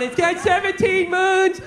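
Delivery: put-on kid going on. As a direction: mimic a child droning out space facts. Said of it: "They just keep going on".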